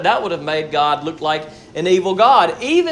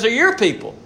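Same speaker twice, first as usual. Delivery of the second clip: "your" raised above "people"; stress on YOUR; 4 semitones higher than usual. Retold or imitated. Moses reminding God whose people, stress on "your". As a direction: put the weight on "your" to hand them back. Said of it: "he kinda reminds God".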